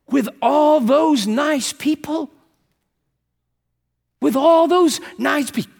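slow, high, loud, horrified echo. Retold or imitated. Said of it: "She looked horrified".

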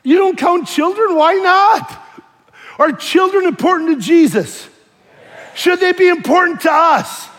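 loud, high string of pointed questions; indignant challenge. Retold or imitated. Preacher retells challenging a church about children, indignant.

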